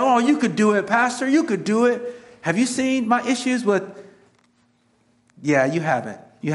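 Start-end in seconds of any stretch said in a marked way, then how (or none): 0.0-2.0 higher, lightly mocking encouragement; coaxing congregation. Congregation urging the pastor he could go, light mock coaxing. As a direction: egg the pastor on playfully. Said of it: "some of you are saying".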